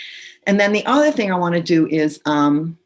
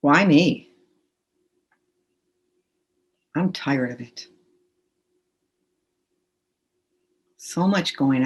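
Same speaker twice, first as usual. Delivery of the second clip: calm, measured tapping script. Acted. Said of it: "just say out loud".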